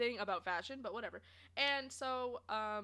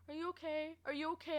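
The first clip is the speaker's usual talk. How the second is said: higher, slightly softened caring question; imitated concern; 5 semitones higher, 4 dB quieter than usual. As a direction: mimic someone checking in tenderly.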